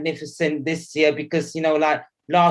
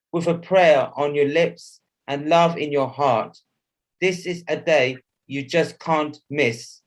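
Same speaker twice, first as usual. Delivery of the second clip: measured poetic recital; poem recitation; slower than usual. Acted. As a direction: recite it like festive verse.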